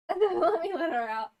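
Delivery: said through a laugh. Real, not acted. Streamer joking about the cat, laughing aloud. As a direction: chuckle while speaking.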